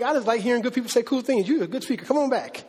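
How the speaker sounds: high-pitched, unconvinced compliments; casually impressed listeners. Acted. Unconvinced crowd complimenting the speaker, casually impressed. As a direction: toss out easy praise in a lifted voice. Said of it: "Not even, not even convinced".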